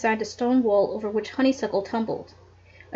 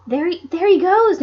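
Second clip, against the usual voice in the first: higher and louder cry; exclaimed; 7 semitones higher, 6 dB louder than usual. A narrator's reading. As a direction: point and call out. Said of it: "Nancy exclaimed".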